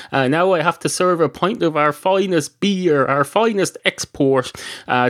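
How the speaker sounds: grumbling barman. Acted. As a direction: moan on and on about the recession like a fed-up barman.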